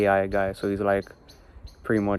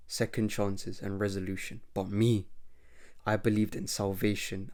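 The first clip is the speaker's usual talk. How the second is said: lightly voiced villain, quiet and smug; a hint of villain voice; 7 dB quieter than usual. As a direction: taunt the old partner softly. Villain explains his creed.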